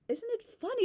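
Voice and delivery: high-pitched sarcastic question. Real, not acted. Ranting about people claiming Jewish ancestry, sarcastic. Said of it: "You know, I'm being sarcastic".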